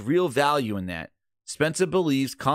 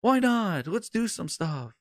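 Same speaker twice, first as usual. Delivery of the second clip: put-on higher, loose drunken babble, slowing at the end; drunk rambling; 5 semitones higher than usual. Drunk exec pitching wild ideas to the reporter, drunk rambling. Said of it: "He's like".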